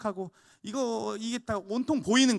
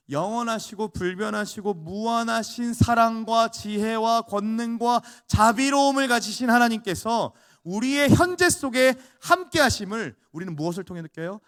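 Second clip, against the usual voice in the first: building, louder preacher's voice; preaching; 3 semitones higher, 7 dB louder than usual. Acted. Pastor proclaims to the congregation, full preaching voice. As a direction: proclaim God's greatness to the congregation.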